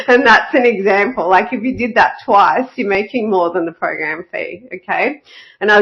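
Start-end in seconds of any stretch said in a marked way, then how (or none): 0.1-1.3 laughing. Real, not acted. Laughing through the point.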